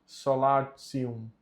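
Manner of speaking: Solatium with the ti said as tsi, ending tsium; Solatium, ti sounded like tsi; church Latin pronunciation. Shown as a demonstration. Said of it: "o T com o I mais a vogal U fica tici".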